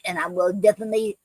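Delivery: breathless, rushing the words; talking while out of breath. Real, not acted. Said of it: "I'm getting out of breath".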